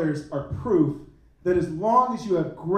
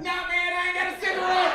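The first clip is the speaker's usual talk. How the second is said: tough black me; 9 semitones higher, faster than usual. Retold or imitated. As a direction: snap it back like a tough guy. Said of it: "the black me was like".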